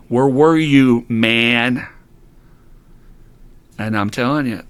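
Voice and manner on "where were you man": louder, drawn-out plea of injustice; half-yelled demand for answers; mock yell. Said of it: "yell and scream".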